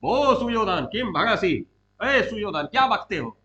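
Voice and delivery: short, projected reprimand; scolding. Acted. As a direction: call him out by name and challenge him. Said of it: "को डांटते हैं".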